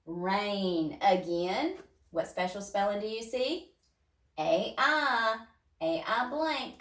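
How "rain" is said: said fast. Shown as a demonstration. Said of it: "Say it fast".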